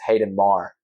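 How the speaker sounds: American pronunciation with the R sounded; American accent. Shown as a demonstration. Guest showing the host his name, in an American accent. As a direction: say Maher as an American, ending on R. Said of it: "in an American accent".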